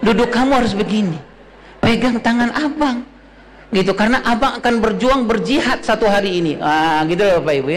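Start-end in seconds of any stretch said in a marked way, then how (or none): 0.0-3.0 Bollywood hero. Retold or imitated. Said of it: "dipengaruhi oleh film-film India". 4.0-6.6 Bollywood hero. Retold or imitated. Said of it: "dipengaruhi oleh film-film India".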